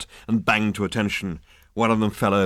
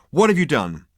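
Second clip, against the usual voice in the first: louder, demanding questions; rounding on him; 5 semitones higher, 5 dB louder than usual. Acted. Ford rounding on the hairdresser, demanding. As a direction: press him hard for answers. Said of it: "rounding on him".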